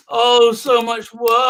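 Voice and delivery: slow, whiny sigh of a lazy writer; mock whiny writer. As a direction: drag out the complaint like an overworked writer. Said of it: "he's like this typing".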